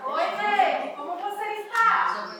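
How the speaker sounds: high-pitched exchange, growing loud; new playful intonation. Shown as a demonstration. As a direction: pitch it up high and punch the answer. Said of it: "criar uma outra entonação pra perguntar".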